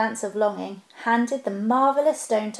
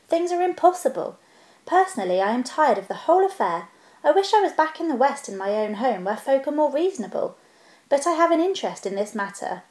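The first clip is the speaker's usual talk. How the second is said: crisp, proper business voice, pitched up at first; businesslike. Acted. Bilbo bargaining with the king and Bard, businesslike. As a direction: Bilbo laying out his claim like a careful tradesman. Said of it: "in his best business manner".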